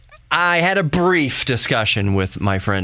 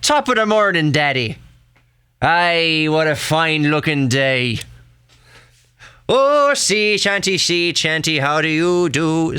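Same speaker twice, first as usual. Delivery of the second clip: put-on stereotypical Irish accent; 4 semitones higher than usual. Newborn son greets Daddy as a little Irishman, caricature Irish accent. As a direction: put on a cartoon stage-Irish lilt. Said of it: "he would come out a little Irishman, a little stereotypical".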